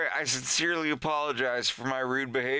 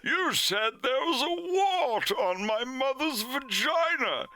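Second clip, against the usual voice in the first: much higher, outraged accusation; accusing kid; 11 semitones higher than usual. Retold or imitated. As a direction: whine the accusation. Kid Wolf accuses Fox.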